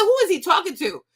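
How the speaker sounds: high, indignant "who is he talking to"; outraged disbelief. Retold or imitated. Teen hearing the song, asking in disbelief who he means. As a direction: react as if insulted by the lyric. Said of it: "I said".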